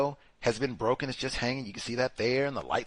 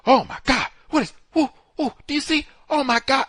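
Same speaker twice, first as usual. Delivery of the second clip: much higher, loud alarmed gasping; mock panicked cry; 11 semitones higher, 6 dB louder than usual. Witnesses on the video seeing the car burn, panicked cry. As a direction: imitate bystanders panicking at a fire. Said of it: "what they yell out".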